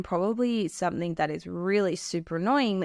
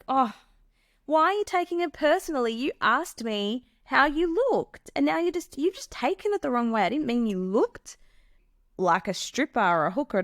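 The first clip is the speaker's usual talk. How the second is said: high, brushing-off mock innocence; dismissive gaslighter; 5 semitones higher than usual. Gaslighter brushing off a partner's hurt, dismissive mock innocence. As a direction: wave her hurt away. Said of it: "So if you're upset about something".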